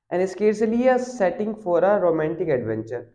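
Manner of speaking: reading the English passage slowly and deliberately; slow text reading. Acted. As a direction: read each word out slowly for the class. Reads the English text aloud. (धीमी गति से पाठ पढ़ना)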